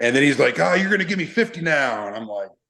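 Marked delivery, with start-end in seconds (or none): 0.6-2.1 high-pitched drill-instructor bark. Retelling a drill instructor's demand at the airport: imitating a drill instructor barking orders. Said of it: "he just starts barking".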